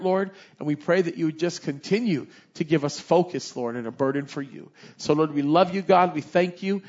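fervent pastoral prayer with repeated Lord; closing prayer. Real, not acted. Pastor leading the congregation in a closing prayer, fervent. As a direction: lead the church in prayer.

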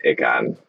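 "Icon" said as ICK-ahn; mistaken pronunciation. Retold or imitated. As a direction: open "Icon" with a short i as in "ick". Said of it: "you just are failing on the pronunciation".

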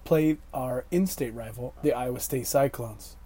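hoarse voice after shouting at refs; raspy, worn-out voice; smoker's rasp. Real, not acted. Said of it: "I sound like a lifelong chain smoker right now".

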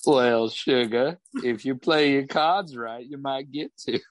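put-on flirt back in a Southern accent; a hint of a Southern barmaid accent; flirty Southern accent. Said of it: "Thornbuckle's accent".

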